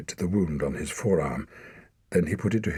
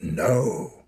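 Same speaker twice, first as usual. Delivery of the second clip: sudden sharp no, louder; forceful no; 4 semitones higher, 4 dB louder than usual. A narrator's reading. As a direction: cut him off hard. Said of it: "with startling force".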